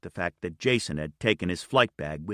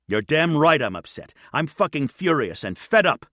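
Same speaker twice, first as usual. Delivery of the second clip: higher and louder furious yell; furious shout; 6 semitones higher, 4 dB louder than usual. A narrator's reading. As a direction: explode at her, fed up. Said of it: "he said, shouting at her".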